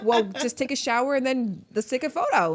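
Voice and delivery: laughing through the retold invite; giggling as she tells how she lured him. Real, not acted. Woman laughing while retelling her teenage come-on.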